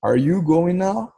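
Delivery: each word slow and clear for learners; slow model question with a rise at the end; slow teaching read. Shown as a demonstration. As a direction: sound it out slowly, like a teacher. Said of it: "Como é que pergunta?".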